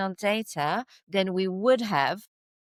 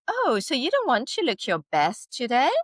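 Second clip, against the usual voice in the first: higher, lightly acted shaming question; mock shaming; 5 semitones higher than usual. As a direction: pretend to shame the shopper, pitched up. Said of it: "trying to shame you".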